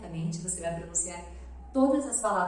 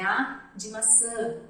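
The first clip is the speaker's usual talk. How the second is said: slow; 2 semitones higher, much slower than usual. Shown as a demonstration. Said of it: "tem na musiquinha essa parte".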